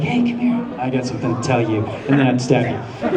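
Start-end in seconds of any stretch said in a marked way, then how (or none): 0.0-1.9 casual evil. Shown as a demonstration. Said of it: "I'd more be like".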